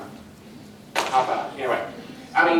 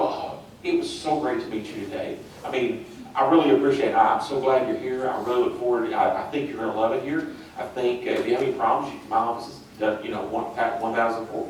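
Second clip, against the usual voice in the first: caring; 2 semitones lower than usual. Shown as a demonstration. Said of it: "If I come and you go".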